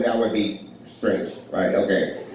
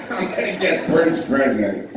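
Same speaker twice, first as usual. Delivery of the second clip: Tracy Morgan line; 3 semitones higher than usual. Retold or imitated. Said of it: "Tracy Morgan did not say that".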